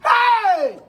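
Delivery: loud, slow proud call; proud shout. Acted. Mother boasts about her rich in-law with a proud shout. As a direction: boast the in-law's name out loud.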